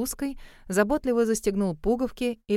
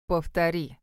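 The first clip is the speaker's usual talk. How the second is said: steely; 4 semitones lower than usual. A narrator's reading. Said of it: "стальные нотки".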